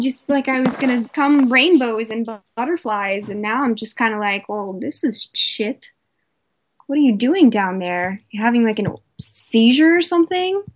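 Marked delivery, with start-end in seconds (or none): 4.5-10.6 sarcastic woman mocking her partner's technique; dry mocking.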